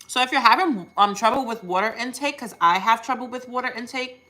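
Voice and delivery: talking with a mouthful of food; mouth full. Real, not acted. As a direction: speak while still chewing food. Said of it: "excuse me while I'm talking with my mouth full".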